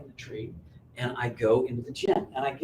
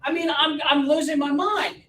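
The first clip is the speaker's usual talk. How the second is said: laughing; 11 semitones higher than usual. Real, not acted. Laughs at own confusion.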